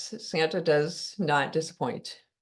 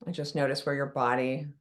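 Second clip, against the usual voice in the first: softer, calm meditation voice with long pauses; guided meditation; 4 dB quieter than usual. Acted. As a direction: ease listeners gently into relaxing.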